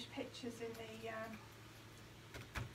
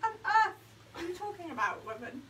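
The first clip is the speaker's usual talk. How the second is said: loud mock exasperation, pitched up; mock exasperated; 4 semitones higher, 5 dB louder than usual. Scolding Andrea over her odd saying, loud mock exasperation. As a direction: pretend to scold a friend in disbelief. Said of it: "and I say to her".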